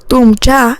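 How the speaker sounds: तुमच्या set apart with emphasis; stress on तुमच्या. A narrator's reading. Narrator repeating the sister's pointed word, stress on तुमच्या. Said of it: "या शब्दावर जोर देत".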